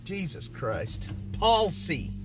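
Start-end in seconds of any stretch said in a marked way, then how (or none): 1.4-2.1 higher, emphatic PAWL-see for "palsy"; exasperated self-correction, "palsy" as PAWL-see; corrected palsy. Shown as a demonstration. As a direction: hit "palsy" as two separate syllables. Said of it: "I'm still saying it policy".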